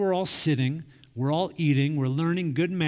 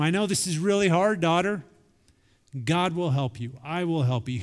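encouraging. Acted. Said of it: "He encouraged them".

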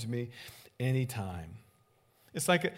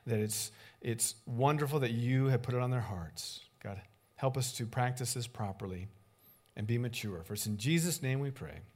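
closing prayer. Acted. A pastor leading the congregation's closing prayer, earnest. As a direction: pray with the congregation, humbly.

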